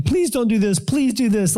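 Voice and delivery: lightly acted begging. Demons plead with Jesus to spare them, mildly begging. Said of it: "they're begging him".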